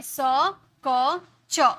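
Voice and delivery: "स", "क", "च" said separately; three C sounds. Shown as a demonstration. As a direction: pause between "स", "क" and "च". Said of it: "तीन तरीके से की जाती है".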